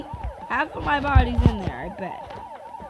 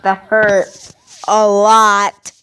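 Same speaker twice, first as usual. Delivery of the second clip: loud complaint; 5 dB louder, much slower than usual. Real, not acted. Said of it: "Sorry, I'm yelling".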